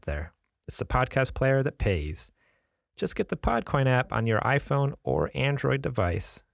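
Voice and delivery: scripted sponsor pitch with lively rises and falls; podcast ad read. Acted. Host pitching the podcast app to listeners, ad read. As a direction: sell it casually, like a host endorsement.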